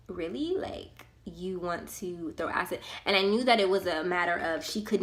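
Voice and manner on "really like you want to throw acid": quiet, slowed, stunned question; dumbfounded disbelief. Retold or imitated. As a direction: let it drop out softly in disbelief. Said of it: "at first I was dumbfounded".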